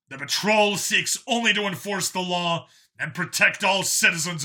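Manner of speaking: loud, commanding broadcast to the city; public declaration. Acted. Vigilante addressing the city's cameras, loud and commanding. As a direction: proclaim it like a warning to all citizens.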